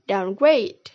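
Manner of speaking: "downgrade" with main stress on "grade"; secondary stress on "down", primary on "grade"; primary stress on second word. Shown as a demonstration. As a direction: land hardest on "grade" in "downgrade". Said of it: "The primary stress is placed on the second word".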